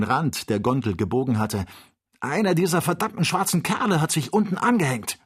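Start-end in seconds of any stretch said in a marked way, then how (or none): 2.2-5.2 higher, agitated alarm; urgent alarmed report; alarmed cry. A narrator's reading. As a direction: shout down the danger. Joe alarmed over gondola rim.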